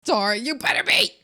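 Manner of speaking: loud hammed-up cry; mock wailing. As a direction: wail at the frogs. Hag wails at frogs.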